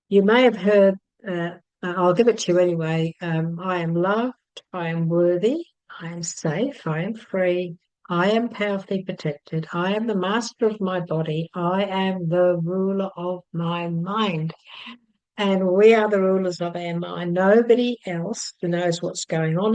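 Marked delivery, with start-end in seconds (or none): 3.6-14.5 affirmations. Acted. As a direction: recite each affirmation to the listener, calmly. Reads out affirmations.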